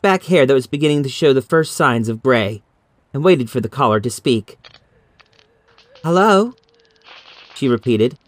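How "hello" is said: a mildly impatient higher Hello? with a rise; a touch of impatience into the phone. Acted. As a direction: ask Hello? again, getting short with the caller. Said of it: "impatience in her voice".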